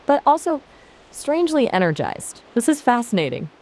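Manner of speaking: hammed-up giddy cartoon critter; squeaky cartoon voice. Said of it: "Am I sufficiently squeaky and ridiculous".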